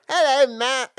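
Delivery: high, nerdy squeaky hello; Urkel voice. Retold or imitated. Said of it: "ridiculous impression of how I sound".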